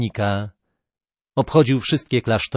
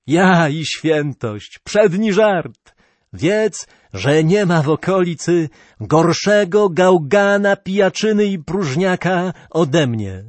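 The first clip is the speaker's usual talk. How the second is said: amused self-mockery; 5 semitones higher than usual. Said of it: "uspokoiwszy się nieco".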